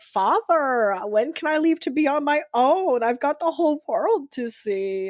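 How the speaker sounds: a hint of a pleading young puppet; lightly voiced Pinocchio asking Father; Pinocchio trailer voice. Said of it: "that one Pinocchio movie commercial".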